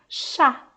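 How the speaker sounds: "chá" whispered as a separate sound; sounded-out syllable. Shown as a demonstration. Teacher isolates the syllable for the child, whispered. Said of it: "formam um pedacinho".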